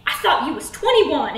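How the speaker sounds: lightly voiced street guy; a hint of swaggering guy, taken aback; startled creep. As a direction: blurt it like a flirt caught out. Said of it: "And he goes".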